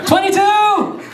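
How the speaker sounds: high-pitched amazed yell; incredulous exclamation. Acted. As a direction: hammer it out in disbelief. Exclaims the count in disbelief.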